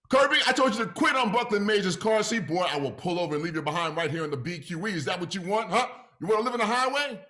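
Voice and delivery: replayed parent yell. Playback of Deacon's yelling.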